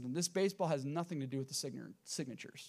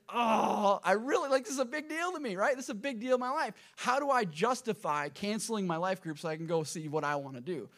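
torn, whiny self-quote; 4 semitones higher, 4 dB louder than usual. Retold or imitated. Retelling his inner conflict.

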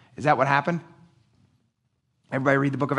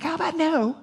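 mock indignant no; 12 semitones higher than usual. Paul refuses killing prisoners.

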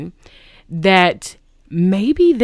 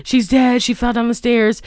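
higher-pitched mock panic; retold panicky phone call, pitched up; imitated freak-out; 5 semitones higher than usual. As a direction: report it as if freaking out, lightly acted. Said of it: "He's, like, freaking out".

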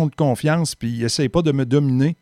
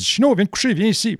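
calling the dog; 8 semitones higher than usual. Retold or imitated. Calling his German shepherd Chino back to lie down, raised call. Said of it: "je l'ai calé".

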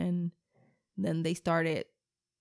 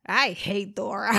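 slow, a bit louder pouting; mock pouty declaration; 6 dB louder than usual. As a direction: state it flatly like a sulky child. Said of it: "she's like".

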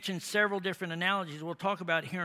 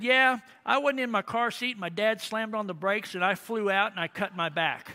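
put-on proud kid blurting out the news; eager little boy; 3 semitones higher, 4 dB louder than usual. Four-year-old boy tells his story.

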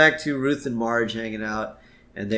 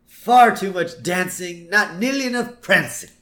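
Mr. Burns impression; 8 semitones higher, 5 dB louder than usual. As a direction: grumble it like a cranky old tycoon. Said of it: "And he says".

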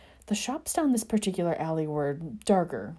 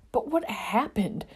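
whisper; 6 semitones higher, slower than usual. A narrator's reading. Bewildered friend.

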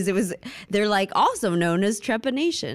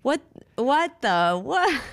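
stunned, rising disbelief, much higher; what the, rising in shock; surprised; 7 semitones higher, slower than usual. Real, not acted. Surprised by two sleep states.

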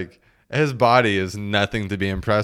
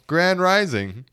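high, lilting mock greeting; mocking grand rising; 10 semitones higher, 4 dB louder, slower than usual. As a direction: send it up, rising at the end. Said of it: "For example".

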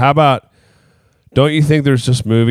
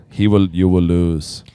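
put-on whispered Drago-style Russian accent; hushed villain Russian threat; mock Russian whisper; 4 semitones lower, slower than usual. Cohost imitates Ivan Drago to his partner, whispered Russian accent. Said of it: "I don't know why I'm talking like this still".

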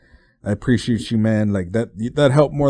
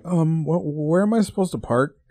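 high, hesitant plea for help; sheepish retold question; 6 semitones higher than usual. New tenant calling the person meeting her about parking, imitated sheepish high voice. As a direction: replay your lost, embarrassed phone call in a higher voice.

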